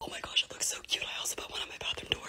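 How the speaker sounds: soft whisper. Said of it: "I'm just gonna whisper".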